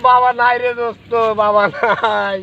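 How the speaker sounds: high, wailing report to a friend; crying lament. Acted. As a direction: wail the bad news in acted despair. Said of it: "তুই কান্দিছিস".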